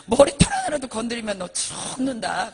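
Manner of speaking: loud acted death threat; mock menacing threat; threatening thug. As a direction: warn them off like a gangster. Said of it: "욕을 하는 거예요".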